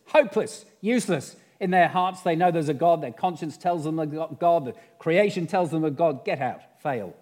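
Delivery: loud, high-pitched scornful dismissal; bellowed, exasperated boss rejecting an idea; scornful senior devil. Acted. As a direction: berate a useless underling at full voice. Senior devil berates junior devil.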